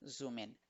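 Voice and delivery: "zoom in" blended into one word, zoo-min; joined as one. Shown as a demonstration. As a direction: run "zoom in" together with no break. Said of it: "decirla junta". ("zoom in" dicho junto, zu-min)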